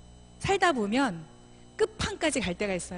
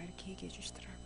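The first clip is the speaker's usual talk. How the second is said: whisper; 14 dB quieter, faster than usual. Real, not acted. After God's words.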